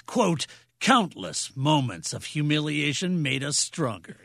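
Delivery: dramatic reading. Acted. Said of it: "do our dramatic readings".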